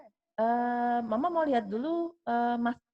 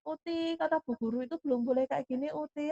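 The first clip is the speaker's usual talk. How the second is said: higher, softer imitated plea to grandma; gentle, careful; 4 semitones higher, 3 dB quieter than usual. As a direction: tread softly, as if coaxing a mother-in-law. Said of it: "harus alon-alon". (membujuk pelan-pelan, menirukan menantu)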